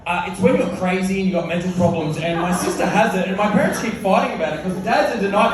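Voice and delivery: put-on loud, fast kid's blurt; a hint of a blurting schoolkid; kid's blurted answer. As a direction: rattle it off like a kid telling all. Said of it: "He goes".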